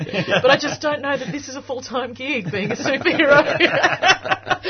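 mock superhero voice. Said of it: "the actual superheroes would turn up and say".

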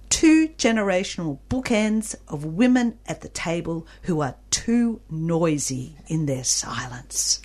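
measured literary reading, slowing towards the end; expressive book reading. A narrator's reading. Interviewer reading a novel's line to its author, expressive reading. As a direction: read the quotation aloud with deliberate weight. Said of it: "I love the way you read".

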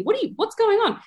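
lifted curious voice of a friendly family; curious whoa. Retold or imitated. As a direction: ask it with wide-eyed curiosity.

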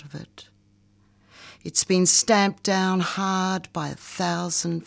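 slow, measured poetry recital; poem reading. Acted. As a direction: read it like a spoken-word poem. Reads her poem aloud.

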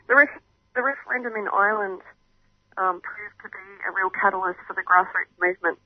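distant, faint phone audio; speaking away from the phone; phone held away. Real, not acted. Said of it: "Can you, can you speak closer to the, to the phone".

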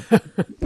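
short nervous chuckle; a quick laugh at own stumble; embarrassed laugh. Real, not acted. Fumbling a name on air.

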